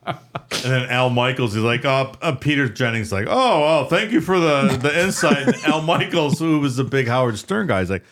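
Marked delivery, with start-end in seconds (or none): 3.3-5.4 news anchor voice. Retold or imitated. Imitating Peter Jennings anchor.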